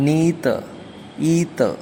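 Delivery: നീത്ത് and ഈത്ത് opening with a long ee; American neither and either. Shown as a demonstration. Teacher demonstrating the American neither and either, long ee. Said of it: "American ഇംഗ്ലീഷിലേക്ക് വരുമ്പോൾ".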